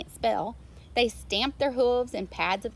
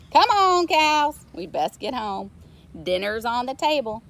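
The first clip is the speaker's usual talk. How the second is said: loud call to the cows; farmer calling out; 2 semitones higher, 8 dB louder than usual. A narrator's reading. Farmer calling his cows home for dinner. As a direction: round up the herd. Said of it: "farmer calls cows home".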